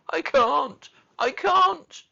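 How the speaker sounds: very high, loud wail; gasping and sobbing. A narrator's reading. Hysterical boy protesting to Mary, sobbing loudly. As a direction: wail it out in desperation. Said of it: "he gasped and sobbed".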